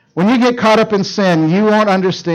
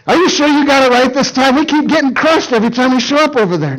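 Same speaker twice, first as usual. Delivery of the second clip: higher, hurried grumbling doubt; mock complaint; 6 semitones higher than usual. Tired Philistines question Delilah, mock complaint. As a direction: question her with hammed-up exasperation.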